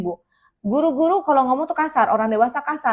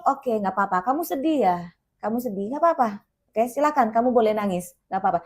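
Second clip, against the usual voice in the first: soothing. Shown as a demonstration. Hugging crying two-year-old.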